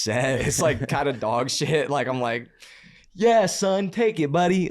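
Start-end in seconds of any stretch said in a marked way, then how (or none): 3.1-4.7 higher, louder mock proud father; hammed-up dad handing his kid a treat; indulgent dad.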